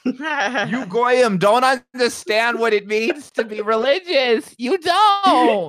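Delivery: high, slow mock Jewish mom; preachy put-on Jewish mom voice; Jewish mother voice. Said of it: "my Jewish voice".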